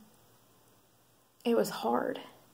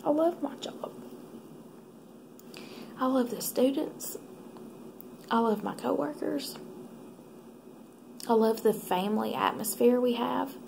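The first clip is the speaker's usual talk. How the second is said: holding back tears. Real, not acted. Leaving her beloved job, telling viewers while tearing up. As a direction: fight the tears as you say it. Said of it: "It's gonna make me cry".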